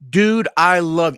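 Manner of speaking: loud, slow, gushing "Dude, I love"; excited yelling. Retold or imitated. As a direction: shout it with overjoyed gratitude. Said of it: "it's screaming at me".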